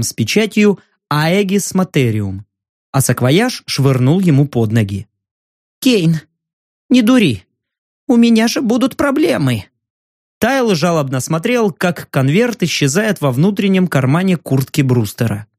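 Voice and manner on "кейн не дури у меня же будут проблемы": anxious plea. Acted. Journalist pleading.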